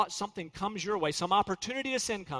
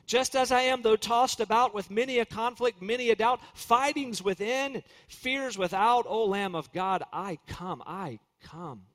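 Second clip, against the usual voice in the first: hymn recitation. Acted. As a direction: recite the hymn line by line, devoutly.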